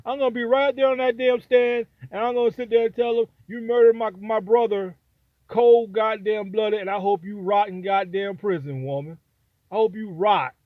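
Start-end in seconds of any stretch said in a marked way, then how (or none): 3.5-10.5 acted courtroom condemnation, words hit hard; angry confrontation. Victim's brother addressing the killer from the stand, angrily.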